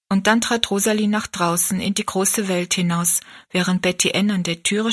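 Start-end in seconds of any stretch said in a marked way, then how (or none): none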